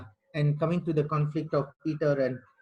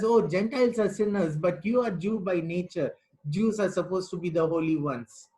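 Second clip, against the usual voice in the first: sarcastic imitation of Peter, pitched up; mocking Peter; 3 semitones higher than usual. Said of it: "He is actually mocking Peter".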